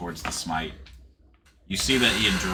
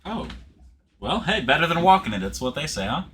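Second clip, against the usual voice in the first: dazed elf; 9 semitones higher, 6 dB louder than usual. Acted.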